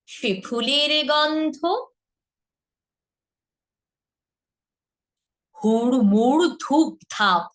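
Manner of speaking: slow, theatrical lines for students to repeat; slow teaching recitation; dramatic rhyme recitation. Acted. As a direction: recite each line with drama for them to echo. Leads line-by-line recitation.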